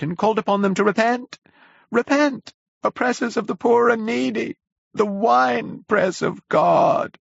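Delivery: raving curate. A narrator's reading. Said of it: "he would say over and over again".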